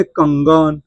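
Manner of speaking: कंगन with the dot sounded as ng; anusvara as ng. Shown as a demonstration. Teacher giving students an example, कंगन with ng. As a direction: say कंगन slowly with ng before ग. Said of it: "अब देखिए अंग भी होगा".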